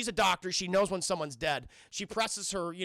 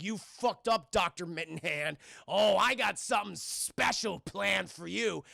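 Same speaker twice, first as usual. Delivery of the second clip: slow, relishing villain threat; leprechaun threat; slower than usual. Retold or imitated. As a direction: draw out the threat as a mock leprechaun. Acts out leprechaun threatening doctor.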